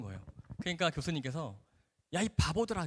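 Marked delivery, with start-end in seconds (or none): 2.1-2.8 mildly cross professor's rebuke; retold angry scolding. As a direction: act out a professor starting to scold. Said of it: "그때 화를 내기 시작하는".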